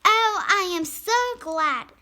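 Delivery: high, bright burst of joy; overjoyed. A narrator's reading. Mother glad to be human again, joyful. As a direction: let the relief pour out.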